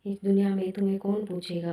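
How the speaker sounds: fast, stress on दुनिया; brisk echo; quick repeat. Shown as a demonstration. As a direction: rattle off इस दुनिया में तुम्हें कौन पूछेगा. Line repeated for effect.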